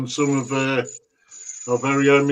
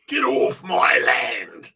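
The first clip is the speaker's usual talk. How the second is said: mock shout; 4 semitones lower, slower than usual. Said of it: "All I'm gonna say".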